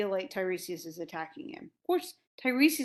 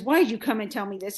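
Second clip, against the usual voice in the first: retold fury, loud and fast; Oedipus; 6 dB louder, faster than usual. Oedipus turns on Tiresias for his news, mock furious. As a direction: fire off a rushed, mock-furious question. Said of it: "Oedipus is just furious".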